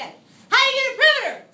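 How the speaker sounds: fast, high, loud call-out; weird voice. Shown as a demonstration. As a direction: rattle it off in a silly high voice. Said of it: "We say it in a weird voice".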